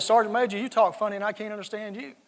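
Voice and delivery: mild mock retort, playful; echoing the sergeant's line back at him in jest. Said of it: "and I said".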